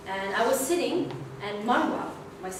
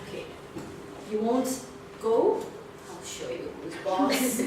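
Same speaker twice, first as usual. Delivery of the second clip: inner voice; 3 dB quieter than usual. Retold or imitated. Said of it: "My inner me said".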